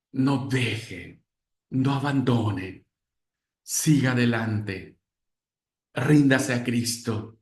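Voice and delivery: slow, measured words of encouragement; encouraging closing appeal. Shown as a demonstration. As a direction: leave space after each short exhortation. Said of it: "denles una palabra de aliento".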